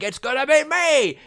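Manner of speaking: high, loud shouted boast; imitating the demo's villain shout; mock monster yell. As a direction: belt it like the monster. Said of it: "You built that up".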